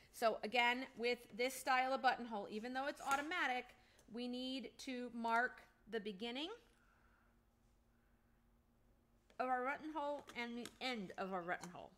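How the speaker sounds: talking around a pen cap in mouth. Real, not acted. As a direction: speak with a pen cap held in teeth. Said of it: "I had the cap of a pen in my mouth".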